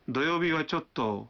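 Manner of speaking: "دویوبی و چوتو" slow, falling on a drawn-out "چوتو"; hesitant polite refusal. Shown as a demonstration. Teacher models declining Saturday politely, "دویوبی و چوتو" hesitant and drawn out. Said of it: "سر نیچا کرتے ہوئے کھینچ کر یوں کہیں".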